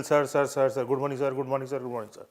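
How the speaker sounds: rattled-off repeated sirs, fading away; wrong way, greeting each. Shown as a demonstration. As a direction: greet every sir one by one, trailing off. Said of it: "Don't have to say individual".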